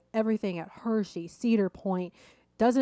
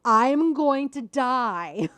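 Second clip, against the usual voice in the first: higher, louder, slow mock scream of terror; retold scream; 5 semitones higher, 5 dB louder, much slower than usual. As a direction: stretch it out like a half-hearted terrified yell. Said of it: "I screamed".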